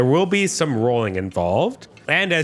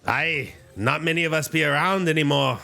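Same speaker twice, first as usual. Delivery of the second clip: put-on Scottish accent; 3 semitones higher than usual. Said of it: "the classic Scottish accent".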